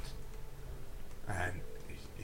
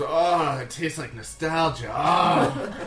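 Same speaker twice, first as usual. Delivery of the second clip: swooning, drawn-out sighs of delight; lost in nostalgic bliss; blissful savouring; 4 semitones higher, 5 dB louder, slower than usual. Acted. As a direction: savour it with loud, higher ohs. Character savours a nostalgic fruit.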